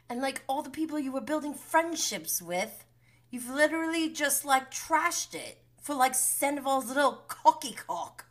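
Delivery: high-pitched imitated rant; acted tirade. Imitating James telling Raquel off, high-pitched tirade.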